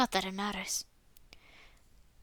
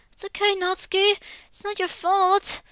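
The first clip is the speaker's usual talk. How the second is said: put-on soothing girl voice; 8 semitones higher than usual. A girl comforting crying Natsuki in a high, gentle voice.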